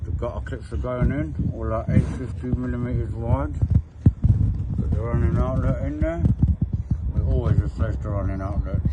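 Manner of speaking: talking through screws held in lips; screws in mouth. Real, not acted. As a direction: mouth half closed around screws. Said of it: "Sorry that I'm talking like this, I've got screws in my mouth".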